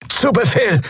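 high strained lizard voice; groaning reptile voice. Acted. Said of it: "ächzte Quailor".

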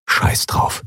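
whispered inner thought. Acted. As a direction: whisper it to yourself. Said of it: "dachte er". (geflüsterter Gedanke)

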